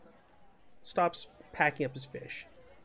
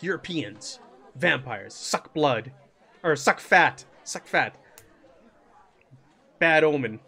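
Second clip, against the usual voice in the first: broken-English vendor; 2 semitones lower, 4 dB louder, slower than usual. Acted. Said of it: "broken version of the language".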